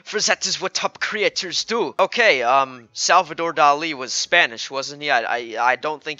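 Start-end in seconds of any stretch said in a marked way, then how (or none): 0.0-1.9 badly faked French artist; lightly voiced French creator; mock French accent. Artist explaining his trends, mock French accent. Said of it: "I'm not French".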